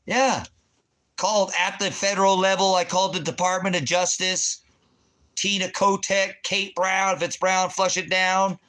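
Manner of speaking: high, loud tirade; ranting shout. Real, not acted. Ranting at the governor, loud and high. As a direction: keep hammering them with it.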